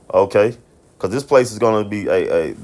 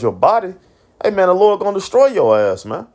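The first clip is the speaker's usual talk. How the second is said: rising heated warning; 9 semitones higher than usual. Real, not acted. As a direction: pitch climbing high into a fired-up preacher's warning. Preacher warning of destruction.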